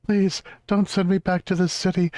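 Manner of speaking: high, pleading cartoon dog. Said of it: "he goes into this thing about".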